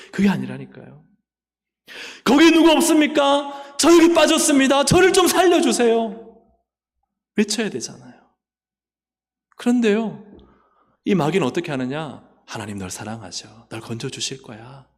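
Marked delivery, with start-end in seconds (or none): 2.2-6.2 calling for help. Acted. Person in the pit calling to passers-by, loud and desperate. 12.5-14.9 much softer, lower tempting voice; devil's soft lie. Acted. Devil lulling the believer, soft and low.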